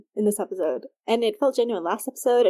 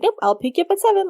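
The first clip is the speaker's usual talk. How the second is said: retold casually in a higher, quick voice; breezy, friendly insistence, pitched up; nice, easy offer; 8 semitones higher, faster than usual. Retelling his date pickup to co-hosts, nice and breezy. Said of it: "a really nice way".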